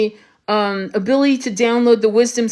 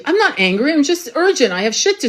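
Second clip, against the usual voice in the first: higher, insistent mom voice; mom's urgent reply; 6 semitones higher than usual. Retold or imitated. Mom snapping back at her daughter, high and urgent. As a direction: quote mom's urgent tone, pitched up. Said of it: "even my mom would say".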